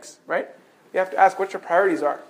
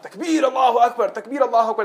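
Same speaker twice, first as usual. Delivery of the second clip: raised-pitch, half-voiced battle cry; imitated battle shout; 3 semitones higher than usual. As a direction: chant like a rallying army, held back. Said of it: "they began to shout".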